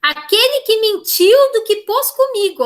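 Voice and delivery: high, pleading line of a lover's lament; a teacher voicing an abandoned girl's plea; pleading recital. Shown as a demonstration. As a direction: beg the flowers for news. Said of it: "ele parece uma súplica".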